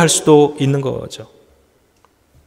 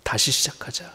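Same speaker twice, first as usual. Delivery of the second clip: much softer, 다시 lifted in a near-whisper; 다시 시작하자 as a faint, intimate echo; hushed repeat; 3 semitones lower, 15 dB quieter than usual. Retold or imitated. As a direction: breathe 다시 시작하자 almost inaudibly, rising on 다시. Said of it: "말씀하는 거예요".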